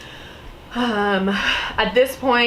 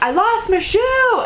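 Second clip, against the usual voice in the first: mild mock yell; 12 semitones higher, slower than usual. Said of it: "I tried to yell at them".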